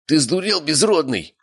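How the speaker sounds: high, pained shocked question; strained, squeezed out. A narrator's reading. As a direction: squeeze the words out through pain. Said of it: "выдавил он". (выдавленный от боли высокий голос)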